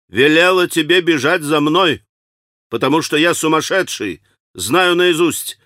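snapping at his brother who chased him; irritable. A narrator's reading. Раздражённо, громче и выше. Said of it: "раздражительно прибавил он".

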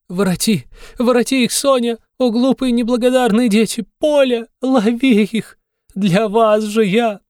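very high, loud, slowing anguished calls; desperate shout. A narrator's reading. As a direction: scream after the children, breaking. Mother chases runaway children. (очень высокий отчаянный крик)

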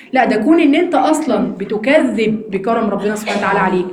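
ordinary talk, nothing marked

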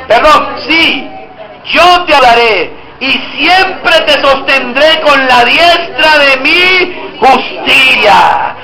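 slow, weighty Bible recitation; slow scripture reading. Acted. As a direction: proclaim every promise slowly. Reads Isaiah 41:10 aloud.

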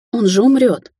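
put-on a young woman shouting over a dying man. A narrator's reading. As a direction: cry it out in panic. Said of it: "закричала она".

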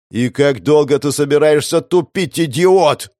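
loud, high furious yell. Acted. Narrator yells at Xiao as the timer runs out, loud furious yell. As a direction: shout it at him, losing patience. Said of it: "заорал я".

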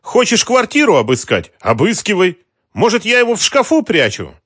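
high, loud furious sarcasm. A narrator's reading. Mara taunting the thugs, high and furious. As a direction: dare them to search, furious. Woman angrily mocking the search.

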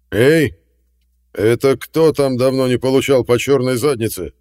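put-on old Douglas flaring up in rage. A narrator's reading. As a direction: explode at the insolent voice. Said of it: "взвился Дуглас-старший".

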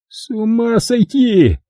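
high, slow, drawn-out groan of despair; Kelly repeats his groan; groaning again. Acted. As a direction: moan it, exasperated. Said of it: "повторил Келли".

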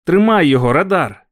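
shouting again at the dog. A narrator's reading. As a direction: call the dog on, loud. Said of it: "кричав я".

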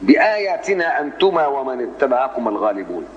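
slow chant starting afresh on "بآياتنا"; recitation resuming at بآياتنا. Shown as a demonstration. Teacher resumes after the pause, slow measured recitation. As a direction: begin a new phrase at "بآياتنا", drawn out. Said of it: "زي ما عملت أنا".

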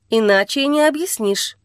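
plain reading voice

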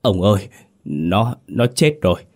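panicked, halting, rising toward the end; trembling stammer. Acted. Wife telling her husband the body is dead, panicked stammer. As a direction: stammer it out in shock. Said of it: "Bà Tám run rẩy lắp bắp".

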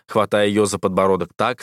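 ordinary delivery, nothing marked

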